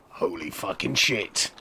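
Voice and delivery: low, slow, hushed amazement; acted quiet disbelief; stunned awe. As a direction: let it out slowly under your breath. Wrestler stunned on seeing present.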